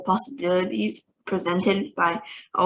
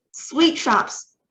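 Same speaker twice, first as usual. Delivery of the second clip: Grand High Witch shouts it, higher; shouting witch; 6 semitones higher, 4 dB louder than usual. A narrator's reading. Grand High Witch shouts the plan to her witches, higher. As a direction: bark it at the crowd, high and sharp. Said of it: "shouted the Grand High Witch".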